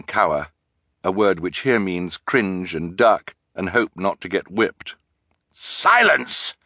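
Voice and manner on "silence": high, forceful commanding shout; terrible roar. A narrator's reading. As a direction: roar the crowd into submission. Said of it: "commanded in a terrible roar".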